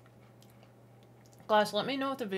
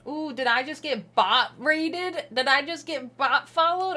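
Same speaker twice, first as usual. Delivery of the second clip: surprised; 7 semitones higher, 7 dB louder, slower than usual. Real, not acted. Surprised at sudden bot follows.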